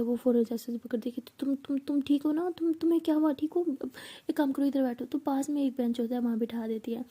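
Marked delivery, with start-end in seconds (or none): 1.2-5.0 higher, stumbling, worried questions; panicked worry. Acted. Meera panics over her friend's pain, stammering worry. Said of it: "Meera बहुत घबरा जाती है".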